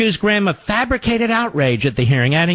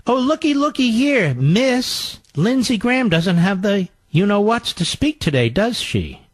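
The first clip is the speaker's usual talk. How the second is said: mocking Kathy Griffin; 5 semitones higher than usual. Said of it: "Also joined in on the gay bashing".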